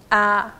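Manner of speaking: 啊 held level in first tone. Shown as a demonstration. Teacher teaching chant syllables, 啊 in level first tone. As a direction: say 啊 on a steady first tone. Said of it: "啊是一声啊".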